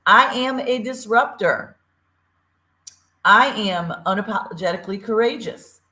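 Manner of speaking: proud, loud declaration fading down; mantra said loud. Shown as a demonstration. Host leads listeners in the show mantra, proud and loud. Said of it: "Say it loud and say it proud".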